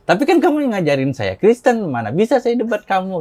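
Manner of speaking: retold protest. Retold protest to debate challenge.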